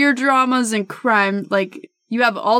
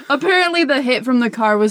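laughing; 2 semitones lower, faster than usual. Real, not acted. Laughing while explaining.

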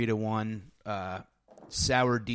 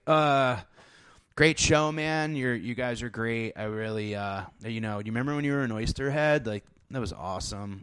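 flustered fanboy babble. Retold or imitated. To a musician after a handshake, a lightly voiced flustered fan. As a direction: babble like a nervous star-struck fan. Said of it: "I turned into fucking Dumb Farley".

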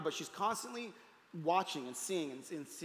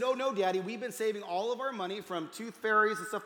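put-on higher, louder, bubbling kids' protest; an excited little girl setting Daddy straight; eager child; 4 semitones higher, 5 dB louder than usual. Daughters correct their dad about the money, eager and louder.

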